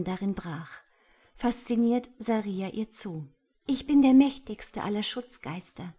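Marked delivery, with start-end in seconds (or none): 3.7-5.9 proud, raised and louder announcement; self-important proclamation; proclaiming. A narrator's reading. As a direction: declare it grandly. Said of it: "verkündete das Insekt da".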